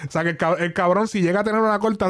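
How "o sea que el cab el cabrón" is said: ordinary delivery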